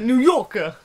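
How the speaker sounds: put-on New Yorker accent. Shown as a demonstration. Showing the only New York words known, New York accent. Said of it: "All I can say in a New York is".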